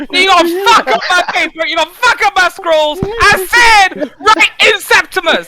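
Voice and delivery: angry yelling. Acted. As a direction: shout down the child over the scrolls. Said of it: "Because I'm angry!".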